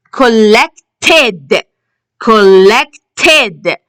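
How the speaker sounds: "collected" split carefully, ending in ed; teacher's model "collected", last syllable sounded ed. Shown as a demonstration. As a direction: say "collected" with a full, clear final ed syllable. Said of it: "We can hear the ed sound".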